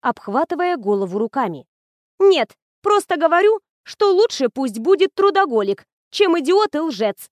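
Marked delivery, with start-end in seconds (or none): 2.2-7.3 high, loud know-it-all tone, slowing at the end; preachy lecturing. A narrator's reading. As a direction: lay down the lesson to your friend. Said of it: "назидательно сказала Ирка".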